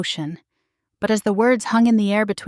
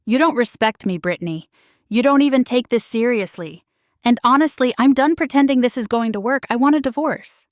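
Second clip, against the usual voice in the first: voice rising; 4 semitones higher than usual. Acted. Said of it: "his voice rising".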